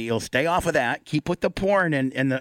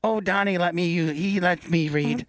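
mock Afghan accent, a bit higher and slow; Afghani accent; 4 semitones higher than usual. Afghan girl thanking Donnie for reading lessons, in mock Afghan accent. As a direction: put on a joking Afghan accent as the grateful girl. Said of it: "was that your Afghani accent".

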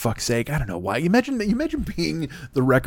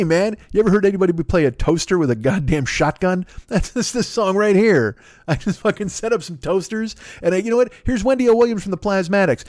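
hammed-up, much higher, excited showman; mocking a singer; 5 semitones higher than usual. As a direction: parody of a rocker gushing over noise. Neil Bogart mocks the singer's pitch.

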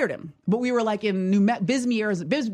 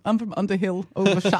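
fake British accent. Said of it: "this is Ray".

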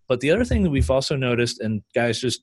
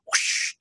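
hushed rushing-air "whoosh"; imitated whoosh; 3 dB quieter than usual. Shown as a demonstration. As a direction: make the sound of air rushing past. Imitates the mic noise in flight.

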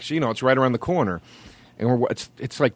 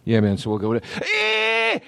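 imitating Dave; slower than usual. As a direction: brush off the fan, big and hammed up. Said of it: "Dave goes like this".

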